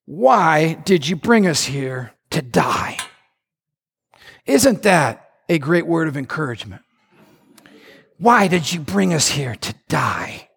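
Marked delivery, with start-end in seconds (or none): 0.1-3.0 lower, slow whiny grumble; mock complaining Israelites. Preacher voicing the Israelites complaining to Moses. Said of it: "Look at what they said next". 8.2-10.5 lower, slow whiny grumble; mock complaining Israelites. Preacher voicing the Israelites complaining to Moses. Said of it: "what they said next".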